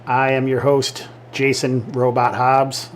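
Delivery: measured, faintly robot-like host intro; lightly stilted, robot-like delivery; slightly robotic. Real, not acted. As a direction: announce yourself with a hint of robot. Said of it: "I sound like a robot there".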